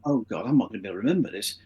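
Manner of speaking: retold panic, low and very fast; panicking. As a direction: rush it like a panicked private thought. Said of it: "I was panicking by this time".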